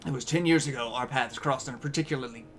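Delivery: put-on weak Cockney accent; a rough go at Cockney; bad Cockney accent. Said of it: "That is a really bad Cockney accent".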